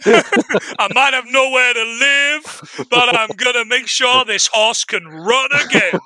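slow, mock-noble vow; mock heroic pledge, slow; hammed-up earnest hero. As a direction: overplay the tragic hero. Acting out the film hero.

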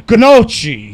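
mock wrong "Gnocchi": guh-NOLE-chee; mispronounced gnocchi. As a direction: sound the G in "Gnocchi", with a hard ch. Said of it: "Everyone's like ... trying to sound Italian, but you're wrong".

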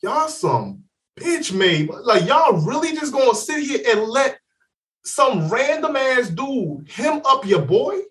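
mock-outraged call-out of friends who just watched; retold disbelief. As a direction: drag it out in disgust, then pitch up. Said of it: "I'm looking dead in their eyes going".

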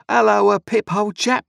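loud, high, friendly blacksmith voice; Joe's hearty greeting. A narrator's reading. Joe greets young Pip by the fire, loud and hearty. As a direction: call out the greeting like a big-hearted smith.

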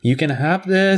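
high, excited pet voice; eager dog. Retold or imitated. Dog showing off her bed, high eager voice. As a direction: speak as a dog offering a gift.

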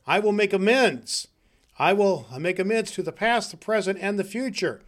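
high, emphatic resolve; fervent vow. Acted. Scrooge vows to the spirits as he leaves bed, fervently. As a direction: declare it with rising zeal.

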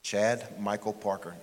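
slow, emphatic dad calling a full name; imitating dad's slow, deliberate name-calling. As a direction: spell out each name slowly, like a warning father. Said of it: "say a little slower for emphasis".

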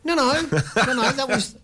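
ordinary talk, nothing marked

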